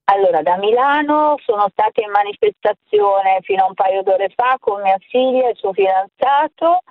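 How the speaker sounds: phone line audio; over the phone. Real, not acted. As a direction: caller heard through telephone. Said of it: "Ti sento, forte e chiaro". (voce al telefono)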